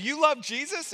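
lightly acted happy disbelief; surprised question. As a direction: ask it high, rising in pleased surprise. Retelling his excited question to the seller.

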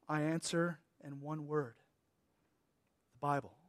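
measured, emphatic excerpt reading with pauses; reading aloud. Real, not acted. Preacher reads an old warning to his congregation, measured and emphatic. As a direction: read it carefully, punching key phrases.

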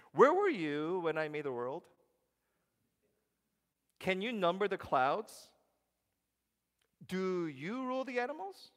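loud, high, booming questions; God's challenge. Retold or imitated. God questioning Job from the whirlwind, booming. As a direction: thunder it down from above. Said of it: "One of the questions is".

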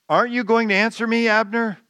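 high, loud call across a canyon; shouting. Retold or imitated. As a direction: call out to Abner from the far hill. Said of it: "David's shouting out to him".

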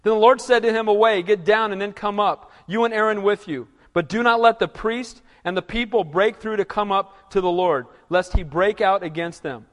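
loud formal reading of Exodus; scripture reading. Acted. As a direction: read the verses out like a proclamation. Reads scripture aloud.

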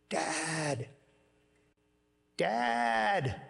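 lightly voiced distant child calling Dad; a hint of a small boy calling out; little boy's voice. Son calling his tired father mid-race, lightly voiced child. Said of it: "I hear this little voice".

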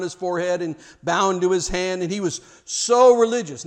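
loud, high, mocking tone about the showy man; mock pompous storyteller. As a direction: build up the religious show with scorn. Preacher acting out Jesus' parable.

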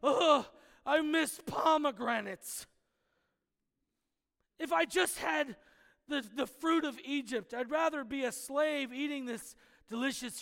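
mock the whiny crowd begging for Egypt; grumbling people whine at Moses, hammed-up; whiny Israelites. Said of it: "they're looking at Moses and saying".

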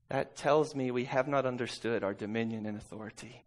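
usual speaking voice

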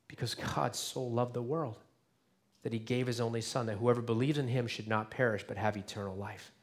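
soft, measured scripture reading. Acted. Pastor reads John 3:16 softly to the congregation. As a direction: read the verse gently to the congregation.

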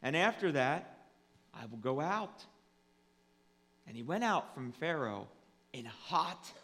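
measured Bible reading, falling away at the close; solemn scripture reading. Real, not acted. Pastor reading of Pharaoh's hardened heart, solemn proclamation. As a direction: read it out with grave, deliberate pauses. Continues reading Exodus aloud.

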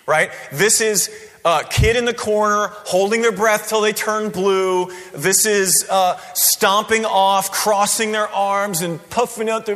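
ordinary delivery

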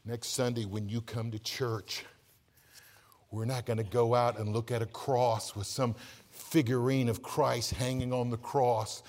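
tender preacher's hush. Acted. Soft reverent sermon passage.

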